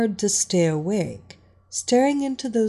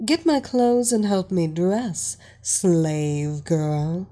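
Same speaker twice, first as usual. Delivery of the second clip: commanding; slower than usual. Acted. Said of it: "the blonde commanded".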